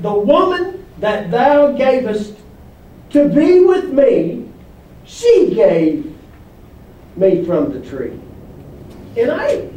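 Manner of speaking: pin it on her, stretching each phrase; hammed-up excuse from Adam; acted blame-shifting. Acting Adam's blame-shifting quote.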